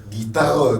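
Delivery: "guitare" with the R sounded at the end; R pronounced. Shown as a demonstration. Teacher pointing out the R, clearly sounded. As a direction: let the R be heard in "guitare". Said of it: "on prononce le R".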